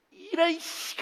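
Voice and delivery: high-pitched irritated outburst; temper flaring. Acted. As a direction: act out a sudden fit of temper. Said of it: "하면서 막 승질이 나는데".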